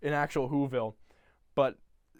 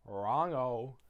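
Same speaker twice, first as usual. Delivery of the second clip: low, soft, sly imitation; Grinch; 4 semitones lower, 7 dB quieter, slower than usual. Grinch correcting Cindy, low silky mock menace. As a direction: savour it quietly like a polite villain. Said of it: "and he goes".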